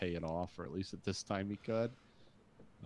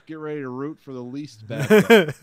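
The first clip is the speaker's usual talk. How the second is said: trailer voice; 7 semitones higher, 18 dB louder than usual. Acted. Mock movie tagline.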